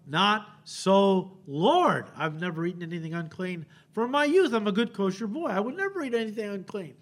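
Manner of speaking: a hint of an indignant Peter protesting. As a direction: protest like a shocked good kosher boy, lightly voiced.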